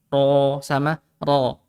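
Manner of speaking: first ro heavy, second ro with rounded lips; slow ro sama ro. contrasting the two ro sounds; heavy ro versus rounded ro. Shown as a demonstration. Teacher compares heavy ro and rounded ro slowly. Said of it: "saya bacanya".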